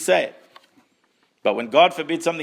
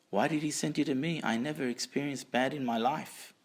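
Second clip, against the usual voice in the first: quieter, gentle puzzled voice; childlike wonder, softly; 6 dB quieter than usual. Retold or imitated. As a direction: ask it like a child with wonder in his eyes. Zusha innocent wonder.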